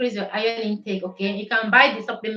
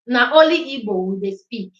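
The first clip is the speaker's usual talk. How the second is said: Pidgin English; 5 dB louder than usual. Shown as a demonstration. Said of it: "Now, make I use pidgin English".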